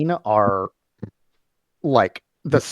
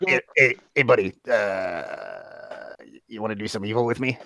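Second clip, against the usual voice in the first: sentient evil guppy keychain, coaxing; 3 semitones lower than usual. Acted. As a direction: coax them like a small-time evil tempter. Game master voices evil guppy keychain.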